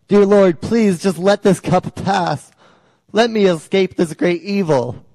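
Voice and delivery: acted anguished prayer; crying out. Jesus prays the night before he is crucified, crying out. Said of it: "cries out to God".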